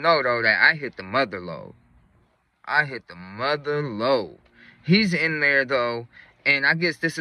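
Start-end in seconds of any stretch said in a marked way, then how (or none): 2.6-4.4 slow, savored repeat; drawn-out emphasis. Real, not acted. Storyteller repeating his big find, slowly for emphasis. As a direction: stretch it out to let it land.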